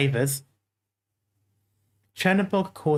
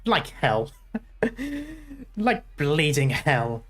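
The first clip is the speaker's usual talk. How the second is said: angry soldier. Acted. Reunion soldier sneering at crowd then ordering fire, lightly voiced.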